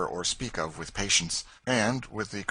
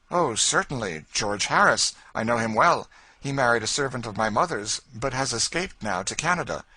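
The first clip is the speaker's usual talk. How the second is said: put-on louder, higher friendly young man; young gentleman, louder; 5 semitones higher, 7 dB louder than usual. George telling the lady about Harris, louder and higher. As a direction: answer brightly and readily.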